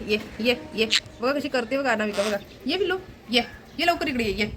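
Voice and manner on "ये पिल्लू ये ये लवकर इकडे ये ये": high, affectionate call; coaxing a pet. Real, not acted. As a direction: call your pet to you in a raised pitch. Calling the pet over to her. (लाडाने उंच स्वरात हाक मारणे)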